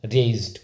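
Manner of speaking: "रेज्ड" as one syllable, RAYZD; low teacher's model of "रेज्ड"; correct pronunciation. Shown as a demonstration. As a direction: say "रेज्ड" straight, no extra vowel. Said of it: "इसको क्या बोला जाएगा".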